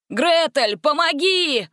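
high, loud cry for help; calling for help. A narrator's reading. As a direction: yell it from the speeding carriage. Kidnapped youth cries for help.

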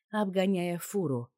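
usual speaking voice

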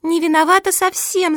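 narrated little sister's cry; mild cry of protest. A narrator's reading. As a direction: cry out in protest, without full shouting. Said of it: "закричала младшая сестра".

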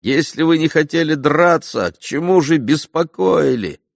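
an offended duellist's angry question; angry retort. A narrator's reading. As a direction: snap back, offended. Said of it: "рассердился даже".

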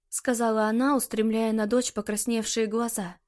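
ordinary delivery

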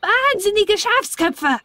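high, slow, rasping dwarf snarl; shrill slow dwarf insult. Acted. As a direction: spit the insult like an angry little gnome. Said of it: "schnarrte der Zwerg".

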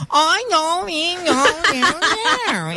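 put-on high, drawn-out sing-song baby talk; half sing it like baby talk, high and slow. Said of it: "it's sing-songy".

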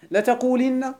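لتقولن said letaqulinna with a clear kasra; لتقولن, feminine form, stressed i; form with i before the nun. Shown as a demonstration. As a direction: give لتقولن a distinct i sound. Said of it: "يلا قولوا معي".

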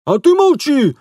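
high, loud snapping shout at the wife; barking shopkeeper. A narrator's reading. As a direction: shut her up with a bark. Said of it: "рявкнул лавочник". (рявкает на жену)

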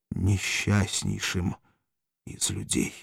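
slow, fading into a whisper; tearful despair. Acted. Spartacus ends his confession to Valeria in fading despair. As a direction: let the despair drain the voice away. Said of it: "голосом, полным слёз".

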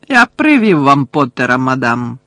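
loud, dutiful announcement; eager servant announcing. Acted. Caretaker delivering Potter to madam, loud and eager. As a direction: announce the prisoner proudly to a superior. Caretaker calls out to his superior.

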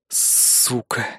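whispered, breathed-out curse; exhaled curse. Acted. Hero curses under his breath, exhaled. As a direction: breathe the word out. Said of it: "выдохнул я".

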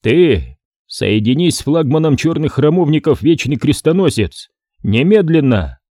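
forceful command. Acted. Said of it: "с таким напором обратился".

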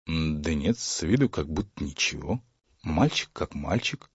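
soft, low aside; puzzled father mumbles quietly; half to himself, hushed; muttering to himself. A narrator's reading.

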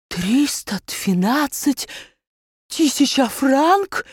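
shocked cry. A narrator's reading. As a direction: drag it out in disbelief. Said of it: "вскричал барон". (потрясённый медленный вскрик барона)

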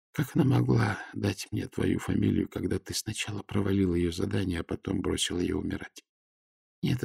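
тихий высокий голос умирающей дочери; рассказывает правду отцу, угасая; слабый голос раненой. A narrator's reading. (тихая исповедь раненой дочери)

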